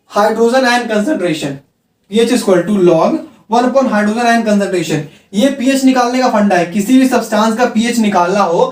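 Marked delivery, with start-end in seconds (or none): 0.1-5.0 very slow, spelling each word out for the board; slow dictation. Shown as a demonstration. Teacher dictating the pH formula to students, slow and deliberate. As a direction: read it word by word so students can copy it down. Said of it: "teacher dictating pH formula".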